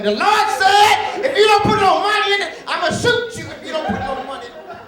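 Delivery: mock threatening pastor. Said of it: "The pastor had a gun".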